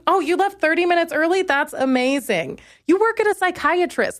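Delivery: high mocking disbelief; sarcastic high-pitched mock amazement. Sarcastic mock reply to receptionist.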